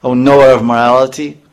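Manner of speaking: angry dismissal. Retold or imitated.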